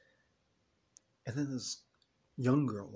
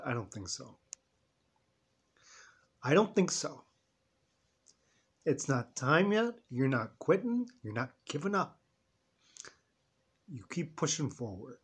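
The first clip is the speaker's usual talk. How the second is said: inner voice, firm. Retold or imitated. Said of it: "I harnessed this other voice in my head".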